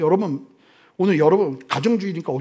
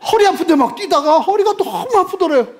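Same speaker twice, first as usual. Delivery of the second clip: high and loud, laughing as you say it; laughing through words; 9 semitones higher, 5 dB louder than usual. Real, not acted. Preacher laughing at the man's back pain, laughing through words. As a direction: giggle through the punchline.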